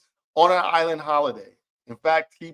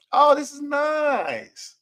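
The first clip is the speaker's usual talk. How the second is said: much higher, slow, wide-eyed tourist; 11 semitones higher, much slower than usual. Retold or imitated. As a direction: play a dazzled tourist looking around. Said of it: "a traveler or a tourist".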